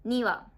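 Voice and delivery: 二羽 with accent on に; intonation of 二羽. Shown as a demonstration. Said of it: "ちょっとイントネーションが違うんですよね".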